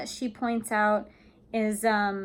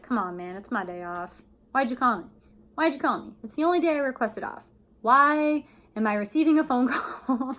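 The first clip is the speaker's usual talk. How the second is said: annoyed; 3 semitones higher than usual. Shown as a demonstration. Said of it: "a little bit annoyed".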